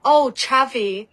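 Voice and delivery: Chavi said slowly and clearly as CHAV-ee, short a; correcting the pronunciation. Shown as a demonstration. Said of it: "You said Chivik?".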